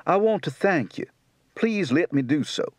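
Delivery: Tennessee accent. Shown as a demonstration.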